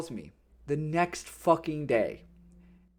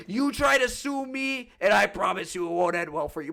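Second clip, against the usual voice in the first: mocking tough guy; 2 semitones higher than usual. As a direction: sneer his threat back at him. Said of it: "put on your fucking big boy pants and to say".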